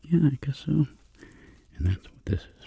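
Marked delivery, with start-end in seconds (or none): 0.0-0.9 Frank voice. Pretend. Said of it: "Frank's like".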